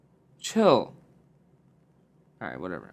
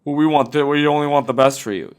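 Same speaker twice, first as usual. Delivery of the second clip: lightly voiced parent, a bit louder; a hint of a preachy parent; mock parent voice; 6 dB louder than usual. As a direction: parrot the parents' line. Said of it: "Fucking parents".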